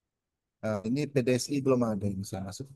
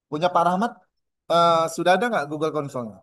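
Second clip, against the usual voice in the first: calling out; 3 semitones higher, 5 dB louder than usual. Real, not acted. Asks participant over video call.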